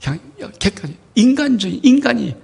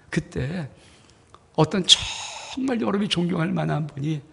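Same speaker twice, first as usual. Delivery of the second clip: ordinary talk, nothing marked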